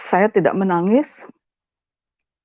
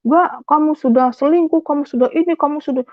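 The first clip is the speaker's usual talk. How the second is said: higher, insistent mock accusing; retold accusation; 6 semitones higher than usual. Husband accusing wife of affairs, retold accusation. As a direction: pile up the charges in a raised pitch.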